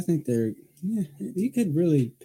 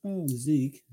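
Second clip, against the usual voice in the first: yawning. Real, not acted. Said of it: "you yawned".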